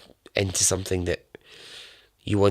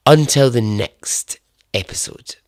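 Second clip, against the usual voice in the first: posh voice; 2 semitones higher, 5 dB louder than usual. Pretend. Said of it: "that was my, like, posh voice".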